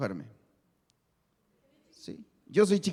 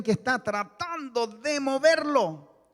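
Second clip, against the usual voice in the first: straining to shove someone while talking; esfuerzo al empujar; 4 semitones higher, 3 dB quieter, slower than usual. Shown as a demonstration. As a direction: push the words out as if heaving a weight. Empuja al voluntario mientras habla. (hablando con esfuerzo, empujando)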